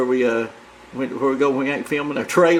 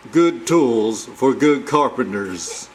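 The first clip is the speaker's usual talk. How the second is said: low, very slow slogan read; deep ad-man slogan, every word stretched; Stanley voice; 6 semitones lower, much slower than usual. Shown as a demonstration. Showing off his Stanley voice with a tool slogan. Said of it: "watch me do my Stanley voice".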